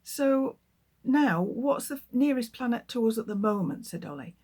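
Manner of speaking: lively storybook read-aloud; reading to children. Acted. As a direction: tell the story to a class of children. Author reads her book aloud.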